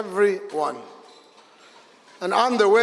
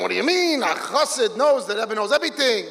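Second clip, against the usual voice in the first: mild mock yell, pitched up; a Chassid defending his Rebbe, voice rising; retold screaming; 3 semitones higher than usual. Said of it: "he starts screaming at him".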